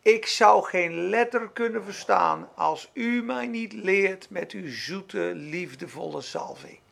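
slow, softening humble prayer; prayerful. Retold or imitated. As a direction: pray it tenderly, fading out.

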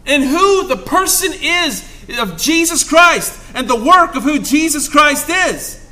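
loud, high, fervent preaching; excited pulpit cry of hope; preaching at full force. Acted.

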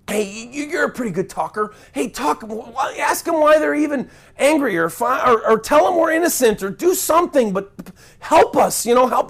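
stuttering, panicky pleading; stammering plea. Retold or imitated. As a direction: beg him to go, tripping over words. Stammering frightened plea to Alexander.

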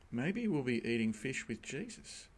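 quiet, matter-of-fact lecturer over his glasses; a soft, deadpan aside; dry lecturer answer. Retold or imitated. Preacher retelling his lecturer's calm answer, quietly deadpan. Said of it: "looked over his glasses".

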